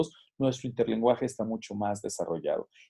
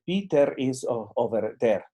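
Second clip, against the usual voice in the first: Spanish accent; slower than usual. Shown as a demonstration. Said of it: "acercando todavía a un nivel fonético al español".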